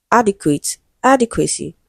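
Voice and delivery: "adequate, adequacy", each punched at the start, "ad"; first-syllable stress. Shown as a demonstration. Teacher demonstrating word stress to students, first syllable stressed in "adequate" and "adequacy". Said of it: "stressed on the first syllable".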